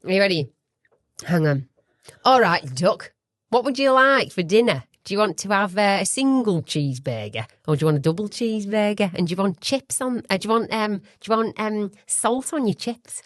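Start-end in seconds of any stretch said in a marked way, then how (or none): 2.2-13.2 broad Yorkshire dinner-time patter; Yorkshire, asking as if taking an order; Yorkshire accent. Acted. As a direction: put on a chatty Yorkshire accent. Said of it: "This one's Yorkshire".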